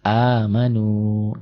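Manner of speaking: "Amanu" slow, ending on a long u; silent final letter. Shown as a demonstration. Teacher illustrating the yellow-letter rule, slow drawn-out reading. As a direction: stretch "Amanu" and skip the written alif. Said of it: "itu nggak dibaca".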